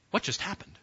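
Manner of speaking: hushed, stunned question; stunned onlookers. Acted. The boys watching wide-eyed, hushed bewilderment. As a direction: ask it softly, as if dumbstruck. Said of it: "They're like".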